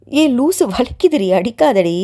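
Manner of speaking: light pained protest to a friend hitting her arm; mock yelp. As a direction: cry out half-laughing that it hurts. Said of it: "என்று நந்தினி கத்த".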